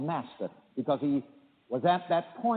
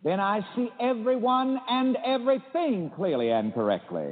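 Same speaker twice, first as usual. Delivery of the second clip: higher, deliberate call to repeat; affirmation lead; 5 semitones higher than usual. Shown as a demonstration. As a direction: lead the line for the congregation to echo. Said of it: "Repeat it after me".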